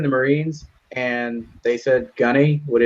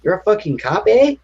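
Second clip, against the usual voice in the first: much higher, incredulous cholo voice; stunned cholo; 9 semitones higher than usual. Retold or imitated. Cuffed cholo realizing the dad is a cop, high and incredulous. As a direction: sound shocked like a cuffed cholo. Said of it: "And then he's like".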